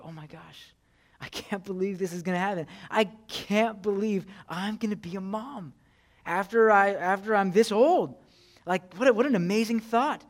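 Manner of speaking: lightly acted delight at becoming a mom; mock wonder. Pastor imitating a delighted Sarah, mock wonder. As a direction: gush in mock amazement. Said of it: "not the laugh of wonder".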